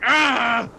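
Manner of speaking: sharp high exasperated cry; frustrated growl. Acted. First mate growling at the married question, frustrated cry. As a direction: snap out an angry growl. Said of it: "he growls".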